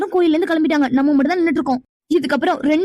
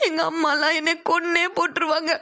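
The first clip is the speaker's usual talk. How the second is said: crying; 5 dB quieter than usual. Acted. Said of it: "அழுதுட்டு இருக்கா".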